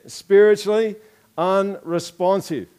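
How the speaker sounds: "Spiritually" punched high and loud, "unresponsive" drawn out slowly; preacher driving the point home; emphatic. Real, not acted. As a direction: hit "Spiritually" hard then slow down. Preacher emphasising key term.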